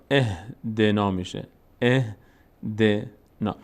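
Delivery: اهدنا opened with a short "e", slowly; slow teaching model of اهدنا; kasra on the first letter. Shown as a demonstration. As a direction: sound out اهدنا piece by piece, eh-de-na.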